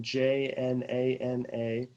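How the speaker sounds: letter-by-letter spelling; spelled out. Real, not acted. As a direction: spell it out evenly, each letter distinct.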